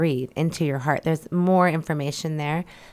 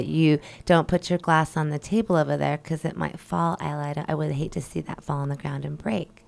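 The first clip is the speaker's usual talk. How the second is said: gentle delivery. Shown as a demonstration. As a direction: say it gently and caringly. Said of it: "pretend I'm giving her a hard truth".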